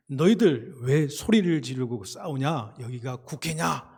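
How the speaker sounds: imitated elder's indignant telling-off; mild mock roar of rebuke, bursts of loudness; scolding elder. Fed-up elder scolding noisy subway passengers, mock angry rebuke. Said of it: "호통치면서 야단을 치시는데".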